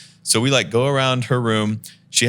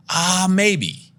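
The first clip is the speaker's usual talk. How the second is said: put-on high, hesitant girl's voice; high dithering roommate answering; vague maybe; 9 semitones higher than usual. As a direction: shrug it off, pitched up. Tenant voiced unsure.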